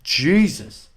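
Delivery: high cracked exclamation; squeaky cracked outburst. Real, not acted. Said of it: "mind the voice crack".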